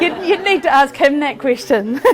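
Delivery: talking through a laugh; amused, chuckling as she answers. Real, not acted. Joking reply to audience question.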